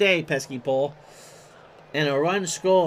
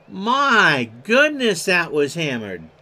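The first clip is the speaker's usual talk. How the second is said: amazed; 5 dB louder, slower than usual. Real, not acted. Reacting to the home run.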